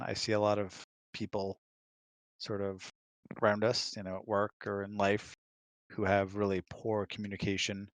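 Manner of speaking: usual speaking voice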